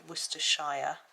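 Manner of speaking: "Worcestershire" as WUS-ter-SHY-uh; full "shire" ending. Shown as a demonstration. Explaining county names to Americans, "Worcestershire" ending in SHY-uh. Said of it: "if you say".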